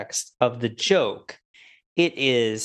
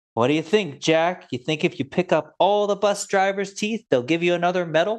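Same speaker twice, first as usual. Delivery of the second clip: play-acted eerily calm, unhinged menace, quick, pitched up; 5 semitones higher than usual. Quoting a character's first line to Jack on the phone, imitating calm but psychotic tone. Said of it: "in a very calm but completely psychotic way".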